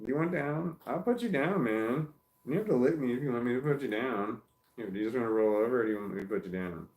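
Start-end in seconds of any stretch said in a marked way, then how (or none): 0.1-3.3 talking to the puppy. Real, not acted.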